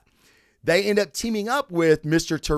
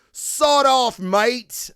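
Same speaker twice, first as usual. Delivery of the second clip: higher-pitched mock British mate; John Constantine; 7 semitones higher, 4 dB louder, much slower than usual. Describing a comic antihero to a friend, John Constantine impression. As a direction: put on a rough attempt at a British character. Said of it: "that's my John Constantine impression".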